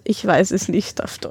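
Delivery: ordinary talk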